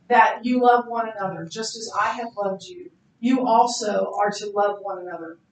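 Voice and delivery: steady, measured Bible reading; scripture reading. Acted. Pastor reading scripture to the congregation, measured. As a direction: read the passage with reverence. Reads John 13 aloud.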